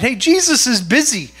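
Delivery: mildly indignant telling-off; rebuking. Acted. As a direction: shush a nuisance, listing reasons to back off. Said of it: "rebuked him and told him to be quiet".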